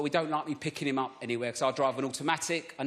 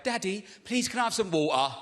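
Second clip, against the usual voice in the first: higher-pitched mimicked child's plea; imitated half-posh kid; 4 semitones higher than usual. Child asking Daddy for water, imitated half-posh voice. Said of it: "They sound like me and my wife".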